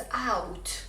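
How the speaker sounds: "اوت" as English out, slow glide ah to oo; diphthong au. Shown as a demonstration. Teacher showing viewers a double vowel, slow glide. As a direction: glide through both sounds in "اوت". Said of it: "بعد او مثل".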